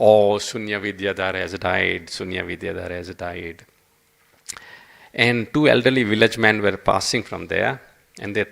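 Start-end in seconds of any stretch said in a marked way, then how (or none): 0.1-3.6 low, mournful lament fading softer; understated wail of grief, sinking away; mock crying. Washerman grieving his dead donkey on the riverbank, mock crying. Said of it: "he started crying".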